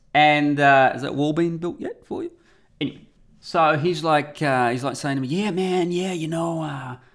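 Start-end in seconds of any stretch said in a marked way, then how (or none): 5.3-7.0 put-on American accent, much higher. Quoting a man who spoke to him, in an attempted American accent. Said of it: "this is my attempt at American accent".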